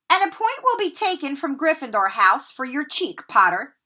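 lightly voiced, clipped penalty; a hint of cold Snape. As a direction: hand out the penalty with relish. Snape docks a point.

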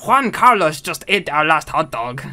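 lightly put-on Spanish accent; touch of a Spanish accent; mock Spanish accent. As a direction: finish the line as a Spaniard. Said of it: "does that mean the guy is Spanish?".

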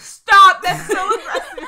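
high, loud laughing stop; real laughing protest at the story. Real, not acted. Laughing reaction to friend story.

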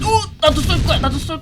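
loud high excited cry; excited shout. Real, not acted. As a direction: shout it out, thrilled. Excited to finally shoot. (신난 외침)

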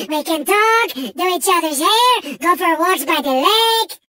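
unhinged, melodramatic game villain; theatrical villain. Acted. Mad villain Engine pleading with Crash for plutonium, melodramatic. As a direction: play a volatile mad villain, swinging between scheming and wailing. Same character voice.

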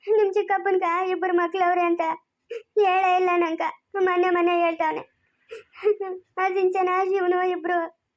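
wife sobbing over husband's deceit; crying. Acted. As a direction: lament between sobs. Mother learns she was deceived.

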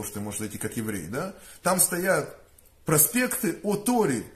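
ordinary talk

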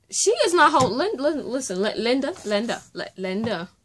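high, loud, stammering the name; worked-up reader calling out the author; mock protest. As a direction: sputter at her in playful disbelief. Mock scolding the author, Linda.

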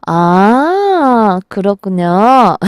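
long drawn-out "ah" of understanding; dawning realisation. Retold or imitated. Host recalls hearing the explanation, slow dawning realisation. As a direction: slowly take it in, as if finally convinced. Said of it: "라고 생각했죠".

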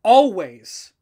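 real outraged incredulity; incredulous. Real, not acted. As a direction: repeat it in utter disbelief. Incredulous repeat of the rule.

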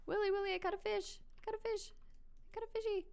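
high, gleeful sing-song calling; proudly calling to Willy about the fish; excited calling out. Real, not acted.

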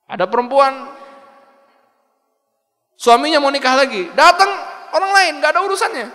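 high, loud and rising, racing at the end; animated storytelling. Real, not acted. Preacher heating up as he tells of a meddling woman, high and loud. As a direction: build it up like a scandal.

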